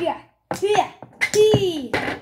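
a light attempt at a German accent on yeah; lightly voiced German yeahs, half-joking; mock German accent. Gamer imitating a German wrestler, light mock German accent. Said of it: "I'm trying to make those sound like a German man".

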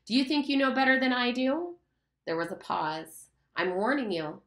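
a lightly played stern schoolmaster, threatening. Lord of the Flies threatens Simon as a schoolmaster, stern. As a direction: scold the boy like an angry headmaster. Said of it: "spoke in the voice of the schoolmaster".

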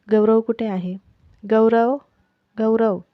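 panicked wife calling loudly for her brother-in-law. Acted. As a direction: shout for him across the house. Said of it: "अबोली मोठमोठ्याने गौरवला आवाज द्यायला लागली".

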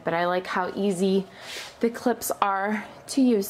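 winded, pregnant breathing; breathless between words. Real, not acted. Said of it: "I'm sorry if I sound out of breath".

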